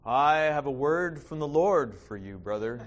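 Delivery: lightly hammed-up prophet giving a word; a hint of a self-important prophet, ending in a laugh; mock prophet. Preacher mocking a stranger-prophet, lightly hammed-up. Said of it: "act like prophets".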